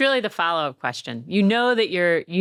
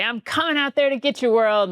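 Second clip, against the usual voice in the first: mock battle cry; 5 semitones higher, 3 dB louder than usual. Dad calling out window mornings.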